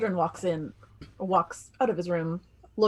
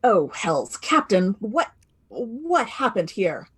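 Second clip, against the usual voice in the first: alarmed; 2 semitones higher, 5 dB louder, slower than usual. Acted. Character alarmed at murder scene.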